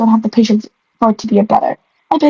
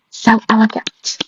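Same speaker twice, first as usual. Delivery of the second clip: slow dreamy admiration; 3 dB quieter, slower than usual. Acted. Dreamy narration line.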